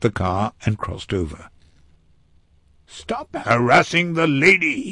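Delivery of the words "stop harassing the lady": higher, angry acted command; indignant raised order; contained roar. A narrator's reading. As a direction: roar it without full volume. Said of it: "he roared".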